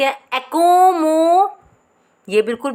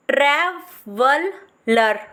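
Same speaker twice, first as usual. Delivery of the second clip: ट्रैवलर stretched very slowly; much slower than usual. Shown as a demonstration. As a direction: stretch every sound. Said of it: "तो देखो ये किस में है". (बहुत धीरे खींचकर)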